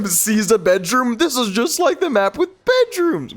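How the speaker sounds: high, delighted recognition; excited. Real, not acted. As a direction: squeal as you spot it. Recognises bedroom map.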